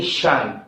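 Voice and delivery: "शन" as one short falling syllable; sound demo. Shown as a demonstration. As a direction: say "शन" as a separate, clear sound. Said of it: "टीआईओएन sound यानी". ("शन" की साफ़ ध्वनि)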